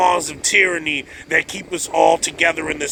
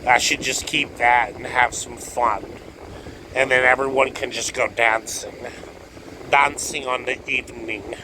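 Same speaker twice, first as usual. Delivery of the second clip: lower, softer musing to himself; inner voice; 4 semitones lower, 3 dB quieter than usual. Retold or imitated. Lower, softer voice for his own thoughts. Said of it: "I think to myself".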